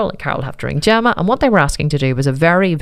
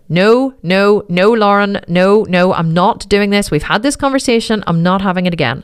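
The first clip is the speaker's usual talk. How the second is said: firm refusal; 4 semitones higher than usual. Retold or imitated. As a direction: cut her daughter off firmly. Mother refusing daughter on phone.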